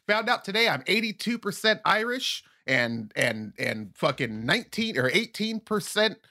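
high, chirpy announcing of ancestry; imitating someone proud of a DNA test; mock Facebook poster. Mocking acquaintances posting ancestry results. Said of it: "They'd be like".

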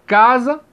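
casa, punched on CA; stress on first syllable. Shown as a demonstration. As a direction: hit the CA in casa, let za fall weaker. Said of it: "é mais forte".

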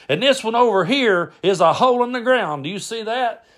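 high, emphatic mock lesson; lecturing uncle Brad. Uncle showing cousin second paper wad, pointedly lecturing. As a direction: point it out as if to a dimwit. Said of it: "He goes".

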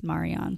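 Marianne said as mah-ree-AHN; friend's name pronunciation. Shown as a demonstration. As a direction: say Marianne with two open "ah" sounds. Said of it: "who spells her name like you".

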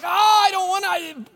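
a hammed-up grudging complaint; mock whine. Voicing reluctance to hard truth.

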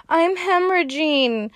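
put-on panicked girl. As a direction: squeal it like a terrified kid. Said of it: "she comes running out of the bathroom and she's like".

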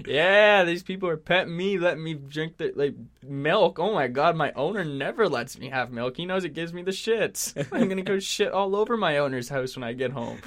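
a hint of a gleeful cat, starting high and loud; lightly voiced cat. Cat gloating about being petted at a stranger's house, lightly acted. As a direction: lightly play a cat boasting about its treat. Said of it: "they're just like".

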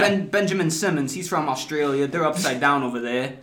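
mock Philly fan running down the roster; Philly accent. Fan lists the new players, mock Philly accent. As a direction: talk up the team in put-on Philly. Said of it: "give it to us in your best Philly accent".

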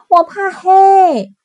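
high, loud wailing cub; a small cub crying out about the dark; little bear voice. Acted.

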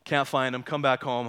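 usual speaking voice

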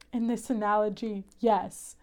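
low, understated deadpan imitation; deadpan serious. Retelling Cass's reply to Dean, deadpan serious. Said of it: "They're both so serious".

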